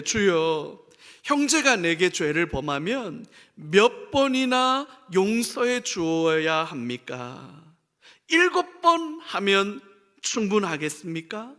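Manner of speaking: slow, measured Bible reading; scripture reading. A narrator's reading. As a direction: read the verse slowly over music. Scripture reading over music. (천천히 낭독하는 성경 구절)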